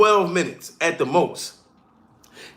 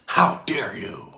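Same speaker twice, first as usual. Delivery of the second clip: whisper; 12 semitones lower, 5 dB quieter, slower than usual. Acted. Mock outrage at Will.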